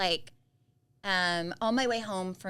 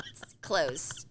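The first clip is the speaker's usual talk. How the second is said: whispered; 3 semitones lower than usual. Real, not acted. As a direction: breathe the words out, no voice.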